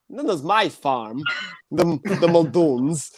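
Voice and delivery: lightly imitated slow mafioso drawl; a hint of a mobster attempting Irish, drawn out; Christopher Walken. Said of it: "sounds like he's in the mafia".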